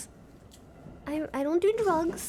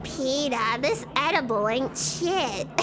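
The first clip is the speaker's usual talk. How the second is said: lightly voiced cartoon wife; a hint of a cartoon wife impression; Lois; 3 semitones lower than usual. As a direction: grumble to your husband as a cartoon mom. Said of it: "do the lowest voice".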